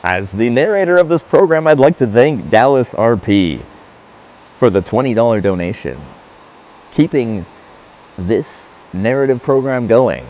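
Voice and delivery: smooth radio announcer voice. Pretend. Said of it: "Why can't I do a documentary in a radio voice?".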